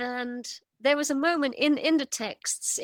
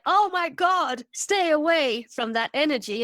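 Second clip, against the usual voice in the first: higher-pitched, mildly panicked warning; mock alarm; 4 semitones higher, 3 dB louder than usual. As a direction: imitate alarmed people warning others off. Acting out alarmed Dark Ages people.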